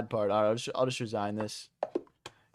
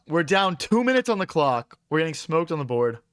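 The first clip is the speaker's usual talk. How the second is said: loud; 4 semitones higher, 4 dB louder than usual. Real, not acted. Streamer stressed, losing chess game.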